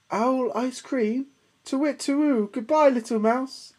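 high hooting alarm; frightened owl. Acted. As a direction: hoot and flee in fright. Owl scared off.

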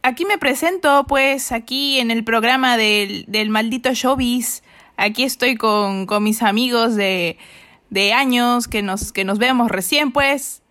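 put-on light Mexican accent, self-introduction; a playful try at Mexican Spanish. Introducing herself on the show in Mexican accent. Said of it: "preséntate en mexicano, en acento mexicano".

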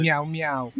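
lightly voiced meow, meow; a hint of a cat's meow; mock cat meowing. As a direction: toss off a lazy cat meow. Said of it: "I'm a cat like, like".

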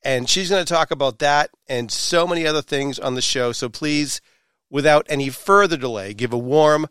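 showy podcast host introduction with dramatic pauses; announcer-style intro. Acted. Host welcomes listeners and hypes the hula hoop guest, announcer style. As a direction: build up the guest with punchy emphasis.

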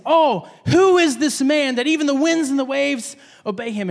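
acted wonder, slightly lifted; a touch of awestruck amazement; reverent awe. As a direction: marvel like an amazed disciple. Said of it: "to a reverent fear".

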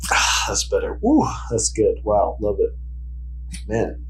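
breathy sigh after a sip; savoring the drink between words; while sipping a drink. Real, not acted. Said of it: "Let me take a sip".

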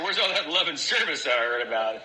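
mock-indignant, laughing through it; laughing complaint. Telling the room how he whined after the dial tone. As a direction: laughingly whine about the hang-up.

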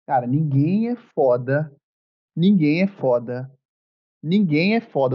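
slow, drawn-out dramatic repetition. Shown as a demonstration. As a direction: deliver it like a grave stage line. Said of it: "Dá o tom dramático". (tom dramático e arrastado)

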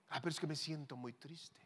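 soft, mildly self-pitying excuse; mock sadness. Samuel excusing himself to God, softly mock-sad. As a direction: answer meekly, playing at being sad.

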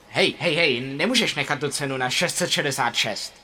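exclaim. Acted. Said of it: "vykřikl".

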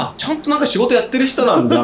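high-pitched mock realisation, as if revising an opinion; imitated surprised realisation. Voicing staff's changed opinion of him.

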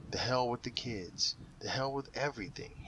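a hammed-up outburst: hell with the kids, hell with everything; exclaiming. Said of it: "he exclaimed".

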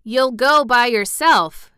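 put-on chatty Yorkshire servant girl, rattling on; Yorkshire maid gossiping cheerfully; Martha's Yorkshire voice. A narrator's reading. Martha answers.

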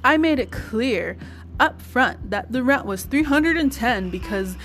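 reading a letter out, carefully; reading aloud word by word. Retold or imitated. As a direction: read each word out as written. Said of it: "I am going to be reading it word by word".

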